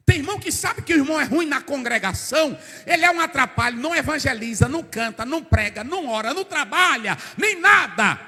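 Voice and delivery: rising pulpit fervour; fiery preaching. Acted. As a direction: preach it harder line by line. Preaching at full force.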